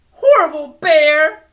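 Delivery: loud, high furious yell; angry shout. Acted. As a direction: shout it out at the bear. Girl stomping and shouting.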